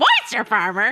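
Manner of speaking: confused, baffled, questioning tone. Retelling the other speaker's reaction to moisture farmers: Kristen impression. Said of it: "I did a good Kristen impression just then".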